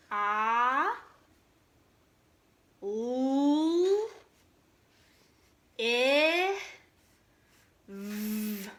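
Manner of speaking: each letter said slowly and apart, with long pauses; sounding out letters. Shown as a demonstration. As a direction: spell A, L, I, V out one by one. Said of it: "what I hear at the beginning".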